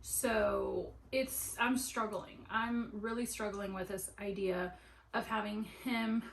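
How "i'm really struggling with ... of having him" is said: hushed confession; whispering. Real, not acted. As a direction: whisper the admission. Confessional, voiceless.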